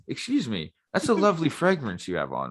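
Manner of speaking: lightly acted polite pick-up line; smooth-talking stranger. Stranger approaching someone's wife, lightly acted smooth talk.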